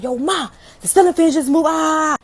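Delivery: high-pitched panicked phone report; fake hype. Scared caller tells mama about fan, panicked. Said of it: "I'm fake hype right now".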